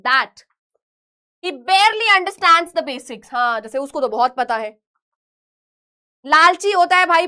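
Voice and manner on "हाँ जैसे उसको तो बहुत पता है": contemptuous. Shown as a demonstration.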